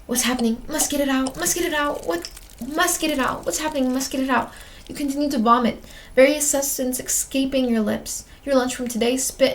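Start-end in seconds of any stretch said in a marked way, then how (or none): 0.1-4.5 higher, urgent frantic pleading; acted breathless panic; panicked. Acted panic while retching into sink.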